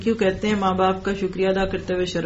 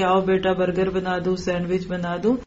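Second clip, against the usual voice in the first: coaxing parent. Retold or imitated. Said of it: "پچکارتے ہیں".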